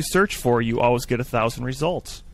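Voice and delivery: mock praise, tongue in cheek; sarcastic. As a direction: fake enthusiasm for a flaw. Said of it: "See, I'm being sarcastic now".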